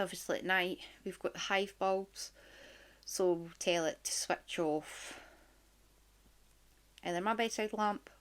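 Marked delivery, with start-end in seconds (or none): 3.0-5.2 talking round a strong mint; words past a mint in the mouth; sucking a mint. Real, not acted. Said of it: "I'm now sucking on a mint".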